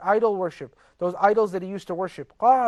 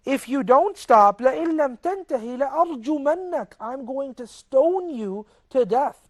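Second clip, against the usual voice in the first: angry father's threat; 4 semitones higher, faster than usual. Retold or imitated. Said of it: "He's so angry that he's willing to kill his son".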